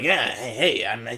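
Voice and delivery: lightly mocked lacklustre character voice; underwhelming. Fan mocking the dub's voices, mildly underwhelming. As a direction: give a half-hearted, underwhelming impression. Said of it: "they're very underwhelming".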